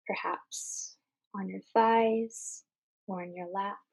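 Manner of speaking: measured meditation guide with long pauses; guided meditation. Real, not acted. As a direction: guide listeners calmly, phrase by phrase, leaving room to breathe.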